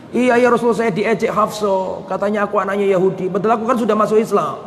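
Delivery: imitated crying plea; lightly acted weepy grievance; mock tearful complaint. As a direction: plead your hurt as if in tears. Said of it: "Datang ke Nabi nangis".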